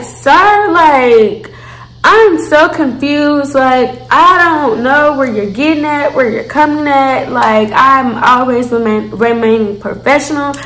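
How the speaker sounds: calm it down, stay customer-service; polite clerk. Retold or imitated. Polite reply to threatening customer.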